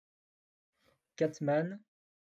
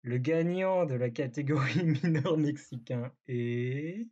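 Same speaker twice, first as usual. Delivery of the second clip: hyped giveaway announcement; slower than usual. Real, not acted. Award reveal to the group.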